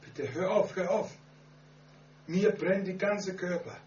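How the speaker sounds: high, loud pleading cry; retold scream. Sister crying out during the prayer, high and loud. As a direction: cry out to make it stop. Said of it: "schreit sie so laut".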